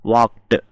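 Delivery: "వాక్డ్" ending in kt, not d; t ending shown. Shown as a demonstration. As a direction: release a clear t at the end of "వాక్డ్". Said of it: "టా వచ్చింది".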